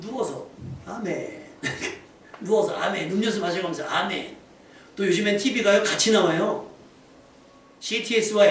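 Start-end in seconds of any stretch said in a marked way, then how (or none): 0.0-4.3 mock lazy amen. Preacher mimicking people lying around at worship, lazy. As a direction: imitate a worshipper lounging through church. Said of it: "펑펑 놀면서".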